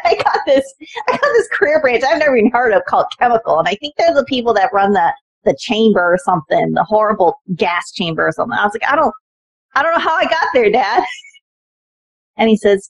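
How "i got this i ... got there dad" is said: dismayed. Retold or imitated. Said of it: "I said".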